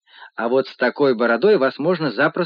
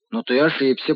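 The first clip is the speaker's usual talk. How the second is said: crystal-clear little voice. Acted. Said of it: "хрустальный голосок".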